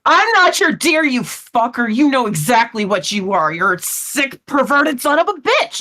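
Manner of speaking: indignant outburst, starting high; angry retort. Acted. Kat rejecting being called dear, angry outburst. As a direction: spit insults back at him, punching the key words. Acted quarrel, attacking him.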